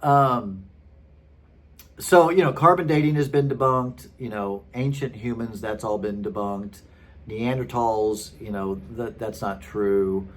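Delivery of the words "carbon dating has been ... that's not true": retold list of dismissals, falling away; matter-of-fact. Man dismissing carbon dating and Neanderthals, matter-of-fact. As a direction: tick off each claim as settled. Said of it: "he just said it so matter-of-factly".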